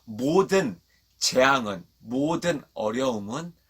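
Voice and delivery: slow, spaced-out phrases; feed the congregation each phrase to repeat; deliberate teaching recitation. Shown as a demonstration. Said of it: "다시 한번 따라해볼게요".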